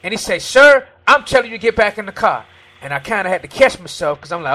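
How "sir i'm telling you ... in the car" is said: loud, raised officer's command; retold stern order. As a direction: imitate an officer ordering someone back.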